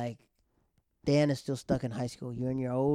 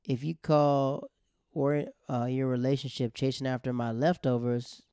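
put-on drunk jab. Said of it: "Keith throws a shot and says".

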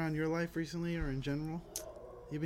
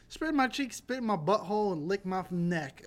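high, hammed-up raunchy plea; mock raunchy voice; 4 semitones higher, 3 dB louder than usual. To the dudes, joking, in a hammed-up raunchy voice. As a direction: camp it up, higher and louder. Mock sexy demand in a bit.

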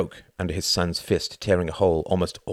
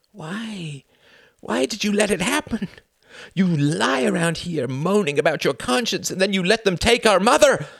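high voice building from hushed to a shout; anguished accusation; 13 semitones higher, 4 dB louder than usual. A narrator's reading. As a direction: build from a pleading why to fury. Son grabs father, accuses him.

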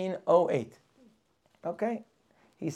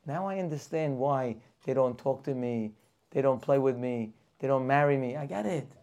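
the newcomer talks himself into assimilating, growing louder; immigrant deciding to fit in; 5 dB louder than usual. Acted. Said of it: "the guy says".

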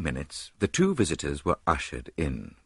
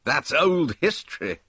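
louder dismissive scoff; loud contemptuous; contemptuous cry; 8 semitones higher, 4 dB louder than usual. A narrator's reading. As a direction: brush it off with scorn. Dodge dismissing the wound.

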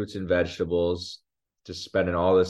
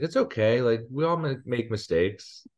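higher, lightly voiced kid reassurance; calming child; 4 semitones higher than usual. Son consoling his dad on the drive, calming. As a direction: soothe dad, slowing at the end. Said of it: "trying to calm me down".

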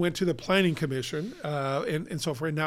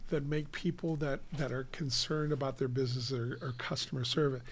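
whispering; 2 semitones lower, 6 dB quieter than usual. Real, not acted. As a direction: drop to a near whisper. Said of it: "Why are you whispering?".

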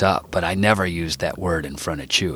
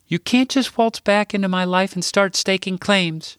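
indignant; 13 semitones higher than usual. A narrator's reading. Sarah confronts the returning father.

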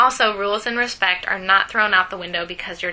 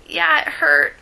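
put-on higher small child voice; kid voice; 8 semitones higher, 6 dB louder than usual. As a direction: play the hurt little kid. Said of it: "my kid voice".

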